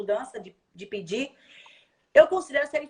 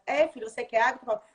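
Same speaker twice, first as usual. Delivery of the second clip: lightly voiced mother, clear and inviting; mother modeling speech. Shown as a demonstration. Mother offering water to her child, gently modeling words. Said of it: "Aí você faz".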